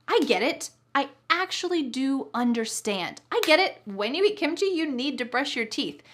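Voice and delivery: really mean "I get it"; emphatic understanding. Shown as a demonstration. Teacher shows she actually understands, emphatic. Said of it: "I'm kind of emphasizing".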